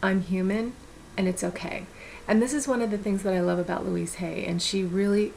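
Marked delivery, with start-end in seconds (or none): 0.0-1.8 1 gentle reassurance. Retold or imitated. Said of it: "catch myself and go".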